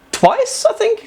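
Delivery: questioning. Real, not acted. Unsure, checking own memory.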